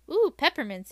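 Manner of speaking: light up over the candy; delighted. A narrator's reading.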